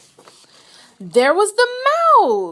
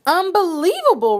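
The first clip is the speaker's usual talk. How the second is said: roared; 8 semitones higher, 4 dB louder than usual. A narrator's reading. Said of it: "roared Bear".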